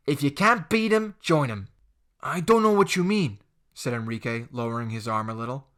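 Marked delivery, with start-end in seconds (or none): 0.1-1.7 lightly voiced menace; hint the threat; a hint of a cocky bully; sly bully. Jake quoting saying. 2.2-3.4 lightly voiced higher wary reply; a hint of nervous boy. Enrique wary.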